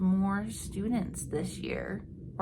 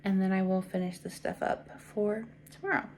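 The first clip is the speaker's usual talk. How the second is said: fed-up relief; 3 semitones higher, 6 dB louder than usual. Retold or imitated. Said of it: "I was like".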